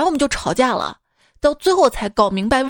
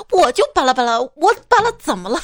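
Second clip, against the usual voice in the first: mock girlfriend retort; 3 semitones higher, 4 dB louder than usual. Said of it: "常用这样的句式反驳".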